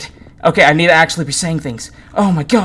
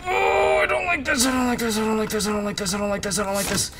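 high, soft nervous repeating; scared babbling; 4 semitones higher, 5 dB quieter than usual. Real, not acted. Player creeping toward danger, frightened muttering. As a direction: fret under your breath, pitch sinking.

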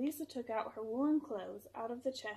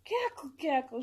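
clucking hen. A narrator's reading. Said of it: "she clucked and laughed".

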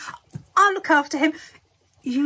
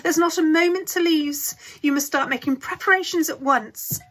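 put-on loud, high, eager old man rattling off orders; excited urging; 5 semitones higher, 6 dB louder than usual. A narrator's reading. Grandpa Joe rushing Charlie to get ready, loud and high. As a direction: hurry him along with loud glee.

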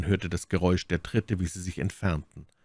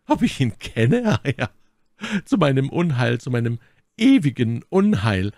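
raised, bitter outcry; anguished Milady; 7 semitones higher, 6 dB louder than usual. Acted. Milady admits to Felton she knows her ruin, anguished. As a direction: lament it with heavy, drawn emphasis.

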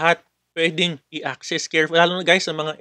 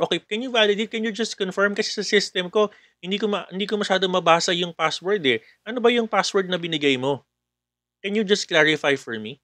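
scam caller; 4 semitones higher than usual. Acted. Acted scam caller asking details.

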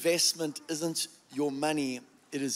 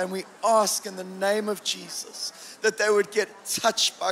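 impassioned, insistent public prayer; fervent prayer; 5 semitones higher, 5 dB louder than usual. Real, not acted. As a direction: lead the church in urgent prayer.

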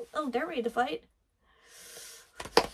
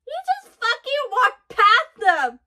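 slow, higher and louder, hitting each word; emphatic amazed repeat; 7 semitones higher, 4 dB louder, slower than usual. Real, not acted. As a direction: spell it out in hyped disbelief. Repeats reaction, more emphatic.

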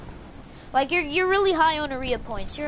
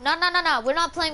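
loud refusal; 3 semitones higher, 5 dB louder than usual. Real, not acted. Refuses to play with mobile.

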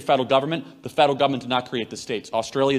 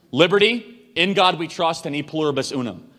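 proclaimed; 4 semitones higher than usual. Real, not acted. Rally speech listing core values.

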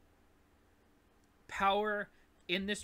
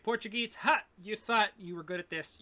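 louder, lightly hammed-up gloating jeer; mock taunting; 3 semitones higher, 6 dB louder than usual. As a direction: play a mock boast at a beaten rival. Dutch taunting the Portuguese, acted.

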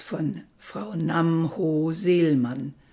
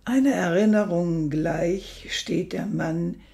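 measured poetry reading with lingering pauses; solemnly paced literary recital; poem recitation; 2 semitones lower than usual. Acted. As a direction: recite the poem line by line, letting each image settle.

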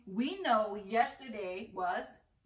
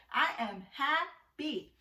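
happy; slower than usual. Shown as a demonstration. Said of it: "Can you tell how I'm feeling".

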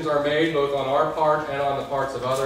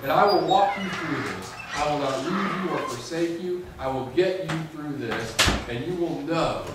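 God's reassurance. Retold or imitated. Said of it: "He said to me".

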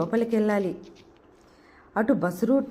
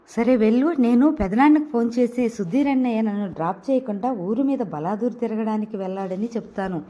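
spiteful. Acted. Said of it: "అని కసిగా అంటూ".

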